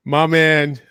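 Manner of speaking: trying not to laugh, then cracking up; holding back laughter. Real, not acted. Host spots his buddy popping into the chat, holding back laughter. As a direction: let the laughter take over on the name. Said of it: "I'm sorry, I'm laughing".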